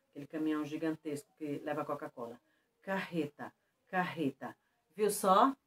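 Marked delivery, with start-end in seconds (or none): 2.8-4.6 Carreta with a soft H-like throat R; double R. Shown as a demonstration. Teacher repeats the truck word for pupils, double R. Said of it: "Agora veja".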